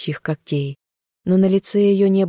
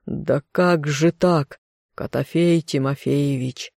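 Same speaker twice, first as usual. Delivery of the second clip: forcing words out. Acted. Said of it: "проговорил через силу, едва ли не воя с тоски".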